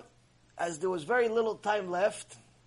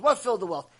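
mocking laugh; faster than usual. He starts laughing at him.

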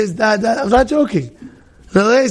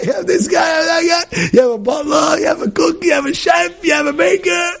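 high mock-shouted list; exasperated listing; 8 semitones higher than usual. Guy questions the rabbis making fish, mock shouting high.

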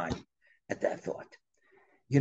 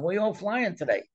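a touch of American South, higher voice; Southern accent; 4 semitones higher than usual. Acted. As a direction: imitate a friendly pilot with a hint of Southern accent. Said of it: "He's in a southern accent".

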